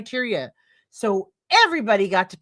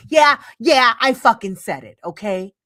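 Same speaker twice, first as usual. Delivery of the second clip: defiant; 7 dB louder than usual. Real, not acted. Defiant after provocative claim.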